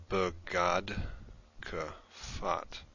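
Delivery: "Begad Kafat" in slow, separated chunks; slow syllable breakdown. Shown as a demonstration. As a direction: pause between "Begad" and "Kafat", sounding out each part.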